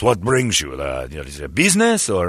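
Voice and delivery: lightly imitated suave attendant; courteous, swooping small talk; beautiful speaking voice. Attendant asking about business or pleasure, beautifully spoken. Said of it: "He's got a beautiful speaking voice".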